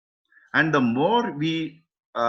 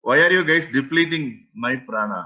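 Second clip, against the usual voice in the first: mildly scolding mother, imitated; mother's scolding; 4 dB louder than usual. Teacher imitating mothers scolding their children, mild mock scolding. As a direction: lightly imitate an exasperated scolding. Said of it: "generally mothers scold us".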